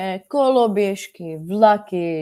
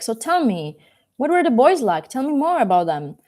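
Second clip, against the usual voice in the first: higher, lively prodding for details; animated, pitched-up curiosity; eager questioning; 5 semitones higher than usual. Acted. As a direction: urge them to tell, all curiosity. Eager questioner in a retold story.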